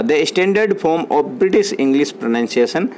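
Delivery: very slow, word by word English; dictation pace. Shown as a demonstration. Teacher dictating a definition to students, very slow. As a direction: read it out slowly so they can write. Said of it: "dictating a definition".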